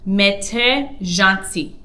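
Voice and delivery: slow, careful French example; deliberate teacher read; slow model sentence. Shown as a demonstration. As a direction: spell it out slowly for learners. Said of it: "you can say".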